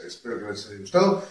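fast squawky cartoon duck talk. Shown as a demonstration. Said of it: "así es como yo hago la voz del Pato Donald".

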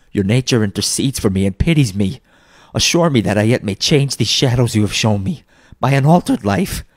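earnest entreaty, swelling at the end; building, mildly desperate appeal; pleading. Acted. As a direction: beg for another chance. Scrooge begging for mercy.

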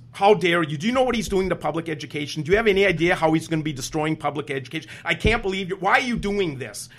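imitated angry yelling. Senator berates teacher on the phone, yelling in imitation. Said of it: "he's kinda yelling at me".

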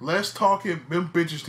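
loud, laughing through it. Real, not acted. Laughing loudly at his own hot take about women wrestlers. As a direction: burst out laughing as he says it.

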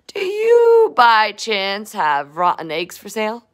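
Oscar voice. Acted. Oscar voiced in picture book.

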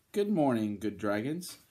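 lightly voiced friendly knight, tune rising at the end; storybook knight saying good morning; knight's greeting. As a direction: greet the dragons, lifting the last word.

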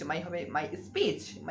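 my speech drawn out very slowly, word by word; very slow teacher demo of my speech; slow drill. Shown as a demonstration. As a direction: stretch out my speech for learners. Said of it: "সেটা speech".

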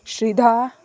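angry shout of her name; loud call. A narrator's reading. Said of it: "ಗಟ್ಟಿಯಾಗಿ ಕೂಗು ಕೇಳಿಸ್ತು". (ಕೋಪದಿಂದ ಗಟ್ಟಿಯಾಗಿ ಕೂಗು)

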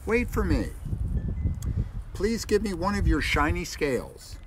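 high, small pleading voice; little fish pleading. Acted. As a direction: beg like a tiny fish.

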